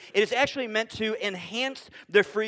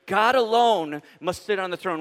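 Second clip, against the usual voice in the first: louder, firm restatement of the line; emphatic declaration; 4 dB louder than usual. Shown as a demonstration. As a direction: proclaim it to the whole room. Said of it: "here's a statement".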